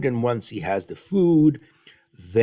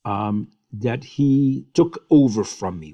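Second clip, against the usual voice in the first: upset; 4 semitones higher, 3 dB louder than usual. Retold or imitated. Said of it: "Esau, um, is very upset".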